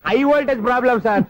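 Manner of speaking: loud exclaim. Real, not acted. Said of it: "ఆ మాట మెల్లగా కూడా చెప్పొచ్చయ్యా".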